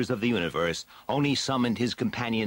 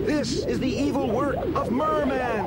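higher, louder heroic warrior voice; Stratos crying out; 3 dB louder than usual. Acted. Stratos offering to carry Tila, calling out boldly.

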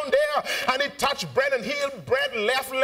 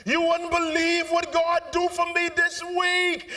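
higher, shouted praise to the pastor; excited testimony; 6 semitones higher, slower than usual. Retold or imitated. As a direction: gush to the pastor about God's work. Congregant gushing to pastor.

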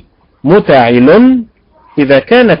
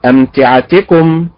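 أمتعتكم, slow, with misplaced stress; wrong stress; 2 semitones higher, slower than usual. Shown as a demonstration. Teacher demonstrating the incorrect stress. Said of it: "الأداء غير المستقيم".

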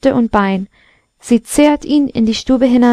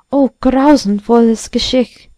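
plain reading voice

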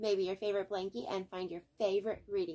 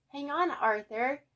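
calling out; 7 semitones higher, 5 dB louder than usual. A narrator's reading. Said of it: "called Binky and Buster".

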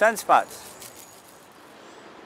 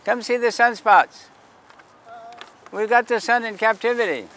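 higher, louder barker's call; loud, high sidewalk pitch; calling out to the street; 6 semitones higher, 5 dB louder than usual. Real, not acted. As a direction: hawk the telescope to the crowd. Calling out to passersby.

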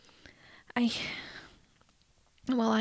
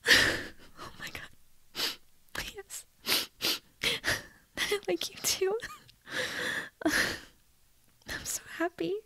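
giddy, breathless happy laughter, higher; overjoyed laughing; 9 semitones higher, much slower than usual. Acted. Girl hearing a yes from her crush, tearful laughter. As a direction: laugh through happy tears. Friend accepts her confession.

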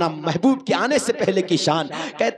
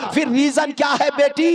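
angry shout; 6 semitones higher than usual. Acted. Angry father-in-law questions Amna.

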